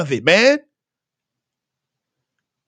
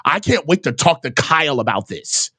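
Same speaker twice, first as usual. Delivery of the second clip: mock eager reporter; 11 semitones lower than usual. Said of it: "I was like".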